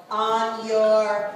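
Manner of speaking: starter's call rising to a shout; race start countdown. Shown as a demonstration. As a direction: count them off, then fire the start. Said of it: "how you said start contests".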